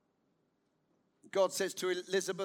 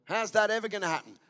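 fast sceptical scoff; preacher demoing doubt; doubting version; faster than usual. Shown as a demonstration. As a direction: say it with unbelief. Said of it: "same question can be asked in two ways".

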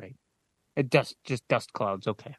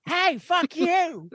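frog voice; 4 dB louder, much slower than usual. Acted. Mock frog retort.

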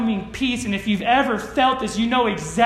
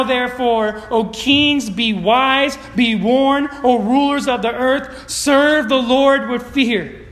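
scripture reading. Acted. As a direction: proclaim the psalm to the room. Reads Psalm aloud to congregation.

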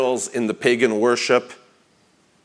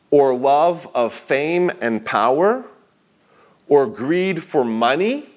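emphatic list reading; 3 semitones higher than usual. Acted. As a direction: build the list item by item with lifted endings. Reads a listed quote aloud.

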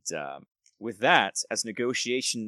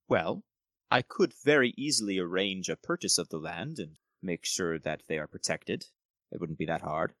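lightly voiced courteous nobleman, bargaining; a hint of an oily noble negotiating; smooth lord Gerald; 2 semitones lower than usual. Gerald offers to buy land.

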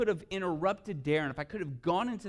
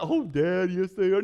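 lightly voiced girl, a touch higher and louder; a hint of the daughter insisting; pleading little girl; 5 semitones higher, 11 dB louder than usual. Little girls plead with dad.

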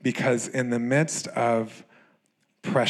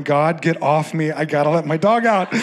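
exasperated cry; 4 semitones higher, 6 dB louder than usual. Retold or imitated. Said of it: "I'm going".

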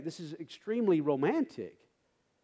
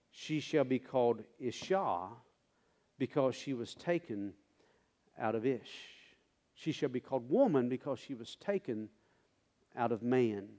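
hushed verse reading; 6 semitones lower, 7 dB quieter than usual. Acted.

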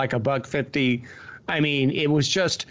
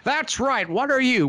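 put-on Sam Raimi's old-timey director voice; 10 semitones higher than usual. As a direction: lord it over them like a pompous old Hollywood director. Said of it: "old-timey Hollywood director voice".

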